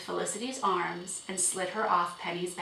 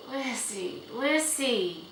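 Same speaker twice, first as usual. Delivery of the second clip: gentle reproach; 6 semitones higher, much slower than usual. A narrator's reading. Father gently corrects upset daughter.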